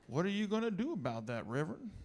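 Southern-accented question, imitating a churchgoer; rich Southern accent. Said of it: "had a particularly rich Southern accent".

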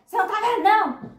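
high, loud mock scolding; imitated harsh official failing someone; nasty examiner. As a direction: shout it like an obnoxious examiner. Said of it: "foi uma mulher nojenta".

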